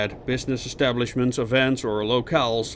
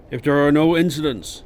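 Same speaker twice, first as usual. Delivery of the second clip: raised, louder, stretched words; rising fever pitch; 4 semitones higher, 6 dB louder than usual. A narrator's reading. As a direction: stretch the words up towards a peak. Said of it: "reaching for a fever pitch as he stretched his words".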